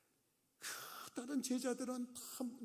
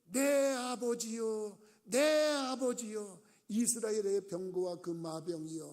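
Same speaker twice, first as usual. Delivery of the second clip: crying out; 2 semitones higher, 6 dB louder, slower than usual. Acted. Elisha crying out as Elijah ascends, loud slow wail. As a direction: cry after him as he vanishes. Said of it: "서로 지르되".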